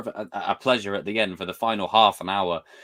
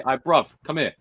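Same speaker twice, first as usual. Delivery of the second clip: London accent; 3 semitones higher than usual. Shown as a demonstration. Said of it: "We say".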